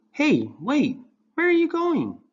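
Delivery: loud, high calling out. Acted. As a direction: call after him down the hall. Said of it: "called Ryan".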